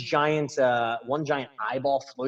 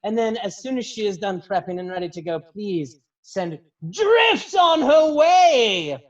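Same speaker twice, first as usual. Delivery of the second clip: high, gushing announcer voice; stage hostess Prima; 9 semitones higher, 4 dB louder than usual. Acted. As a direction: gush in a high voice, then send up the next act. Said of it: "Prima walks back on stage".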